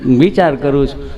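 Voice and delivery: low, slow put-on patient voice; low, dragging mimicked reply; hesitant patient. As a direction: take it slowly and low, as if thinking. Friend answering nurse in skit.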